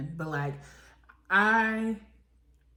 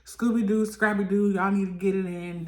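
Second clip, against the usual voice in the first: mock Rolly; 3 semitones higher, 6 dB louder than usual. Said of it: "Rolly's just like".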